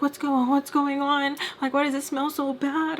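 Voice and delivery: high-pitched mock bewilderment; retold confused questioning. Mister Peach asking about the chaos, high-pitched mock confusion. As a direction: imitate his puzzled questions, pitch up.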